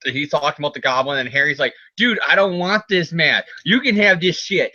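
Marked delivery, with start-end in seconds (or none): 1.9-4.7 higher-pitched mock complaint; acted exasperated refusal; retold refusal. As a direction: whine lightly as if handing it off. Voices Harry refusing mask.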